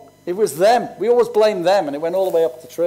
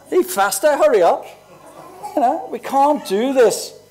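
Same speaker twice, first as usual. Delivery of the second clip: impatient husband; 6 semitones higher than usual. Retold or imitated. Mock husband hurrying wife.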